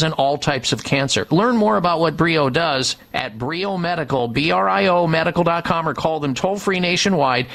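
upbeat sponsor pitch, steady and polished; radio ad read. Acted. Radio host reading a sponsor ad to listeners, polished ad read. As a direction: sell it like a paid spot on air.

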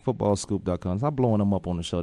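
low, sultry teasing voice; sexy voice. Real, not acted. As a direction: keep up the low sexy voice to tease. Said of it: "Stop the sexy voice".

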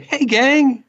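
high, hammed-up hype call; wrestling promo. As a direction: shout it like a cheesy promo. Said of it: "And he said".

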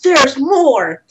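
lightly hammed TV pitchman; hard sell ad. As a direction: pitch it like an infomercial. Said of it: "Billy Mays try to sell this".

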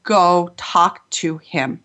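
slow, deliberate, each word set apart; insistent inner voice. Retold or imitated. Intuition insisting she approach the weeping man, slow and deliberate. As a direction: let "Go talk to him." land slowly, one word at a time. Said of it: "this voice just loud said".

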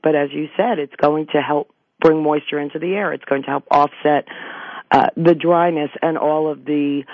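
hoarse, worn-out voice. Real, not acted. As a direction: speak through a hoarse, dry throat. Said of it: "is very hoarse".

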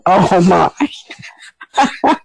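breathy under-the-breath gasp of embarrassment; a hushed, amused oh my; whispered oh my. Retold or imitated. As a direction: whisper it to yourself, scandalized. Shocked inner thought, laughing.

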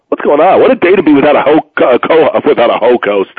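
hiccuping mid-sentence; words broken by hiccups. Real, not acted. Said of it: "now I got the hiccups".

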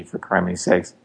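ordinary talk

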